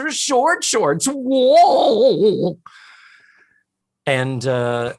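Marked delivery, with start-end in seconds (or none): 1.1-2.6 high, loud startled whoa; surprised whoa. Real, not acted. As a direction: blurt it out in surprise. Sudden exclamation.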